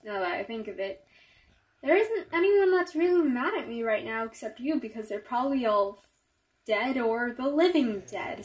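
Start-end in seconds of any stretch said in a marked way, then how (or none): 1.8-8.4 rising alarm. Acted. Sudden realisation everyone is dead.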